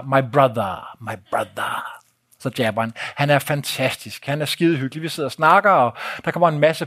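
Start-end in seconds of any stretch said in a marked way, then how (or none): 0.0-2.0 lower, mock boxer greeting; Bekria's my brother. Bekria the boxer greets the narrator, lightly imitated. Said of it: "og så kalder han mig".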